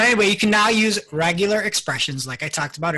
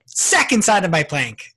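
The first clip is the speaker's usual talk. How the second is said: high, loud indignant customer; mock customer rant; 9 semitones higher, 5 dB louder than usual. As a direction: play an outraged shopper. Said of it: "You're like".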